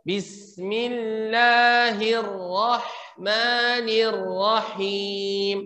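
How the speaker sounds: Bismillahirrahmanirrahim recited slowly with a light R trill; correct recitation. Shown as a demonstration. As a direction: recite with just enough trill. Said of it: "Jadi bagaimana?".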